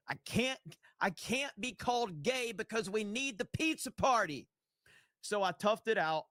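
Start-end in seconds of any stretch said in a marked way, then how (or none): 0.1-4.5 pitched way up, put-on anxious voice; mock panicked worker. Retelling his injured self, high and mock anxious. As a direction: ham up the worker scared of ruining the party. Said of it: "I was like".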